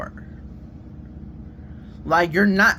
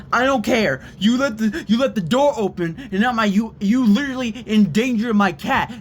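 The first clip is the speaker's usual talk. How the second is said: mock sister's telling-off, higher pitched; imitated angry yelling; 4 semitones higher than usual. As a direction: scold over the top of them, mildly raised voice. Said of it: "started yelling at me".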